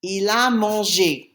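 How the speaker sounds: slow, measured French for learners; slow model answer. Shown as a demonstration. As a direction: give the answer slowly, word by word. Teacher gives answer slowly in French.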